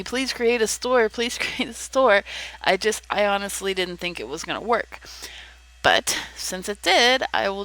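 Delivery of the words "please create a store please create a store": higher-pitched imitation of pleading; retold begging. Friends asking the speaker to open a store, mock begging. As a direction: lightly mimic friends begging. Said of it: "my friends were begging me".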